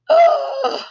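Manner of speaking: high, loud gasp; sharp gasp. Real, not acted. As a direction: gasp in delight. Reacting to her own story.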